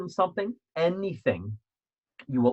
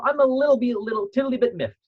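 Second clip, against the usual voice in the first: much higher, louder, mock-dainty lilt; playful understatement; 12 semitones higher, 4 dB louder than usual. Shown as a demonstration. Coach showing viewers how to say it lightly, high and playful. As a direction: make light of it in a sing-song voice. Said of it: "almost make light of it".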